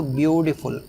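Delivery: "ब्यूटीफुल" with a weighty "ब्यू"; stress on first syllable. Shown as a demonstration. Teacher pronounces "ब्यूटीफुल" for learners, stress on "ब्यू". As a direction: lean on "byoo" in "ब्यूटीफुल". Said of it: "starting में stress है".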